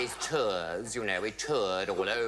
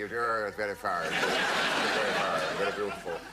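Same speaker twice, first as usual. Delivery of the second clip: 1 gushing OC; 3 semitones lower, 3 dB louder than usual. Retold or imitated. OC's drawn-out praise.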